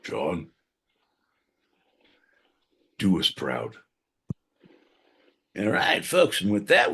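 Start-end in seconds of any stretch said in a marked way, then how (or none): 0.0-0.5 breathy whispered name, much lower; mock whisper. Dying farewell to John, whispered. 3.0-3.7 milk a fake emotional goodbye to John; mock tearful farewell. Farewell to John, mock tearful and hushed.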